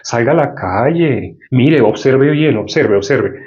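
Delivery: lightly voiced Satan posing as reason; Satan's coaxing. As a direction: coax slowly, playing the tempting voice. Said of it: "Satanás disfrazado de tu lógica, te va a decir".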